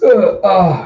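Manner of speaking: loud pained groan; acted dying gasp. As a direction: groan like a wounded man. Dying clown reaches out.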